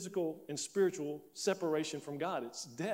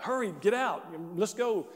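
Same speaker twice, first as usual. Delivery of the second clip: higher, louder imitation of a panicked hurry-up; urgent shout; 4 semitones higher, 5 dB louder than usual. Friend hurrying the others away from the man running out, urgent shout. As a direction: call out urgently, mimicking a friend.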